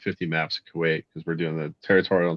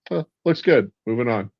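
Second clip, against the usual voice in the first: brisk general; 5 semitones higher, 4 dB louder than usual. Retold or imitated. Imitating the general's brushoff.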